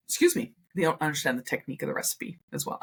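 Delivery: talking through hiccups; hiccuping mid-sentence, quick. Real, not acted. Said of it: "I have the hiccups right now".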